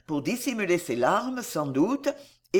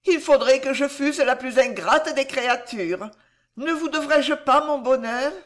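high, fervent thanks; infinite gratitude; 7 semitones higher, 4 dB louder than usual. A narrator's reading. Girl owes the chevalier her happiness, fervent gratitude. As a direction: pour out heartfelt thanks. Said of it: "avec un accent de gratitude infinie".

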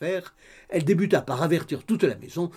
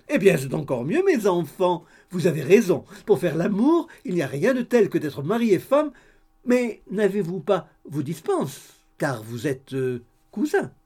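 high, eager gossipy landlady voice; chatty landlady; 4 semitones higher, 5 dB louder than usual. A narrator's reading. Landlady greeting the couple over coffee, high and eager. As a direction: bustle in all welcome and chatter.

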